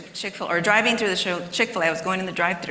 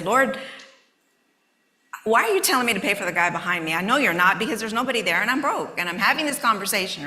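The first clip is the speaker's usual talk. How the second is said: griping at God; 3 semitones higher than usual. Retold or imitated. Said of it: "still griping at the Lord".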